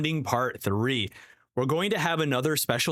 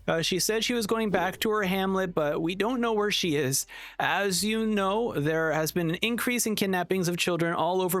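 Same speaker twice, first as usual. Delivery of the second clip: higher-pitched earnest hero addressing a crowd; Red Cleaner voice; 8 semitones higher than usual. Acted. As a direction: pitch up into a sincere masked-hero announcer.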